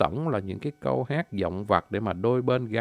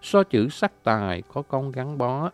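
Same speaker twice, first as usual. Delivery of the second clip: poem recitation; 4 dB louder than usual. Acted. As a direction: declaim it like a poem to a lover. Recites a courting verse.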